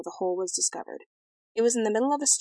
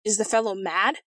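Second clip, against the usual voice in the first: moderately raised, incredulous voice; bawling king; 4 dB louder than usual. A narrator's reading. King bawling at the impudent prince, incredulous. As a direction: read as a restrained royal bawl. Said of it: "bawled the king".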